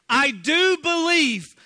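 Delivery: the father pleading with Jesus, slow and loud; crying out. Acted. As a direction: cry it out in anguish. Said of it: "cried out".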